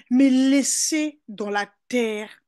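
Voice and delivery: MAIS LAISSEZ drawn out slowly, dans la terre measured; slow, weighty stress on "Mais laissez dans la terre"; emphatic verse. Real, not acted. (citation appuyée, lente et martelée)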